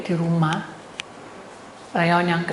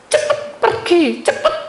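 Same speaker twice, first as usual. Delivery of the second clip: high, forceful retold urging; urgent shout; 9 semitones higher, 4 dB louder than usual. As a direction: push them to hurry. Repeats retold urgent advice. (mendesak dengan suara tinggi dan tegas)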